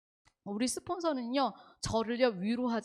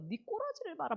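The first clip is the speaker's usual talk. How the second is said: higher, softer mock grumble; acted secret jab in a raised pitch; silent inner cursing; 7 semitones higher, 5 dB quieter than usual. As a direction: curse them privately, half under the voice. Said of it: "속으로 막 욕해요".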